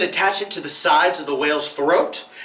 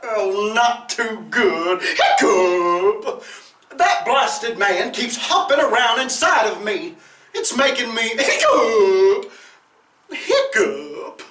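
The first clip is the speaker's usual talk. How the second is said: whale voice; 4 semitones higher, slower than usual. Acted.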